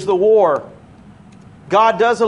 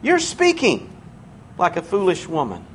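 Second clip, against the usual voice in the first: gracious correction; 3 dB quieter than usual. Acted. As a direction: soften as the correction goes on. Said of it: "See, there's grace there".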